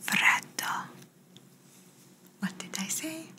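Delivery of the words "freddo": whispered single word for a hearing test. Pretend. Doctor testing a patient's hearing with one word, whispered. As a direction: whisper it close into the ear. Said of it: "I'm going to whisper in this ear".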